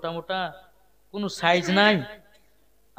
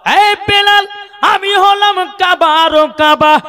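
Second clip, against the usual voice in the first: loud preaching cry, pitched far above usual; high forceful call; 16 dB louder, much slower than usual. Acted. Preacher repeating the Prophet's answer to Bilal, high forceful cry. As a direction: ring it out high and hard.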